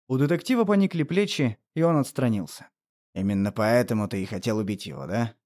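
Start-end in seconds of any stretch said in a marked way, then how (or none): 3.1-5.3 bitter. Acted. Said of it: "с горечью произнёс Саймон".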